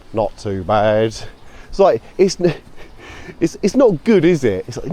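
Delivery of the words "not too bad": British understatement. Retold or imitated. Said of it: "Such a funny phrase".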